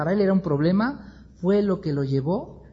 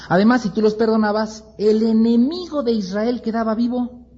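angry complaint; 7 semitones higher than usual. Acted. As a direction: insist indignantly. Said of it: "Jonás se enoja".

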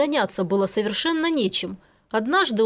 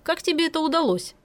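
smirking; 7 semitones higher than usual. A narrator's reading. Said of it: "усмехнулся Полос".

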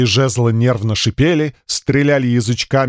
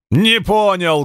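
barking head; 5 semitones higher, slower than usual. Acted. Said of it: "гавкнула левая пасть".

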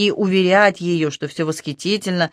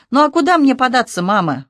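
serious; 8 semitones higher, 6 dB louder than usual. Acted. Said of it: "Вдруг совершенно серьёзно сказал он".

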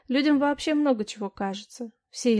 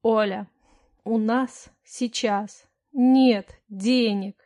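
every word split apart, slow and louder; 5 dB louder, much slower than usual. Acted. Husband spelling out to his wife that there is no money. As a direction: spell each word out separately, very slowly. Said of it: "раздельно произнёс муж".

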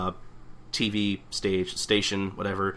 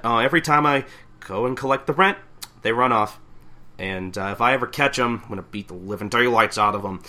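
louder Brooklyn landlady gripe; Brooklyn mother voice; 4 dB louder than usual. Retold or imitated. Otose gripes about tenants skipping rent, Brooklyn landlady voice. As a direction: gripe like a fed-up New York landlady. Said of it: "I give her that voice".

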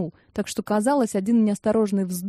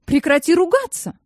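scolding; 8 semitones higher, 5 dB louder than usual. A narrator's reading. Clara scolds Irie.

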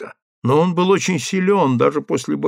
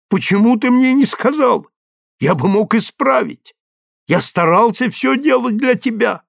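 much higher and louder, rising to near tears; desperate pleading; 7 semitones higher, 5 dB louder than usual. A narrator's reading. Husband begging his wife, higher and louder, desperate. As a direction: pour it all out, begging.

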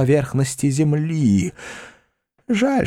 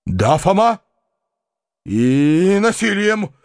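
trembling with agitation; 5 semitones higher, slower than usual. A narrator's reading. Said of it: "отвечал дядя, дрожа от волнения".

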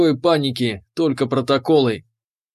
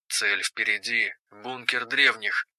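excited over helmet radio; 3 semitones lower, 8 dB quieter than usual. Acted. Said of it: "Её голос в шлеме звучал возбуждённо".

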